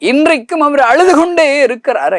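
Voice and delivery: high, loud, breaking cry of grief; tearful preaching cry. Acted. Preacher tells the villagers his Lord is still weeping, in a loud tearful cry. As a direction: wail it out as if weeping yourself.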